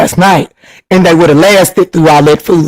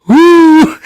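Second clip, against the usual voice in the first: laughing whoop; 9 semitones higher than usual. Real, not acted. Laughing at a viewer's comment, a high whoop of laughter. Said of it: "I am screaming".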